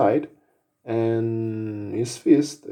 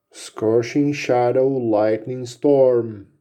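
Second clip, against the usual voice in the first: spell incantation; slower than usual. Acted. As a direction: intone the spell name like a battle cry. Wizard casts his big spell.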